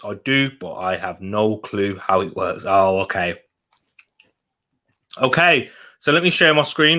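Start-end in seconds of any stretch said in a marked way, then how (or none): 5.2-7.0 talking while eating; mouth full. Real, not acted. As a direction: speak through a mouthful. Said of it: "Apologies, I'm spitting all over the place".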